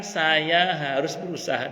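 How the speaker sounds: slow, deliberate quote; slow resolve. Retold or imitated. Preacher repeats Hajar's creed to mothers, slow resolve.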